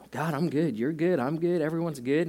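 faking it to God. Retold or imitated. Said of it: "we try and fake it".

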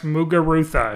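Muguruza ending in "-ru-tha"; Spanish pronunciation. Shown as a demonstration. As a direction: pronounce the Z in Muguruza as a soft "th". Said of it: "it's pronounced".

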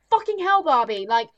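fed-up viewer ranting at Barbie; exasperated rant. Retold or imitated. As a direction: vent at her like a fed-up viewer. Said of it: "it's like".

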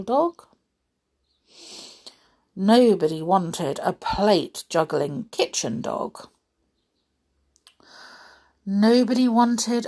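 measured, expressive storybook reading; unhurried tale-telling with lively emphasis; story narration. A narrator's reading. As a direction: read it to children, stressing key words. Reads children's adventure story.

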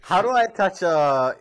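lightly voiced clueless old man; mock boomer voice. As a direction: ask it like a lost grandpa. Mocking Mark as boomer.

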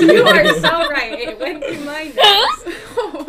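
laughing. Real, not acted. Laughing after drink came out nose.

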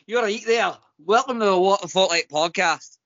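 put-on Scottish accent; amateur Scottish accent impression. Shown as a demonstration. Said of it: "Uh, Scottish".

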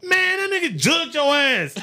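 very high, loud laughing quote; mock friend howling with laughter. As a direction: cackle through the friend's verdict. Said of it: "that nigga was like".

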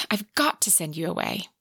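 breathy, unvoiced plea; desperate whisper. A narrator's reading. Sebastian telling Evie she must leave, desperate whisper. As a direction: whisper it as if it hurts to say. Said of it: "he said desperately".

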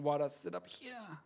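a churchgoer regretting coming, muttering; inner thought. Retold or imitated. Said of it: "You're thinking".

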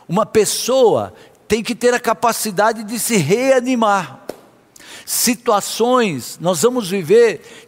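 forceful, declarative sermon delivery; emphatic preaching. Real, not acted. Preacher urging believers to speak to their fears, emphatic preaching. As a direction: preach it with conviction, phrase by phrase.

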